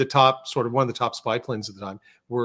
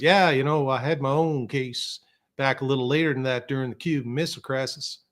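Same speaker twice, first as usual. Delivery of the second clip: half-hearted try at a Texas voice; lightly put-on Texas accent, not convincing; attempted Texas accent. Retelling the colonel's own case, badly faked Texas accent. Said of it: "That's not a Texas accent".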